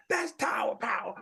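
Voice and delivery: breathy, voiceless under-the-breath aside; whispered aside. Retold or imitated. Prince aside leaving the stage.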